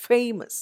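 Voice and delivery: "Famous" with a high FA, then falling; FA-mous, light ending on "Famous"; first-syllable stress. Shown as a demonstration. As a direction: hit FA in "Famous". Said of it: "first syllable".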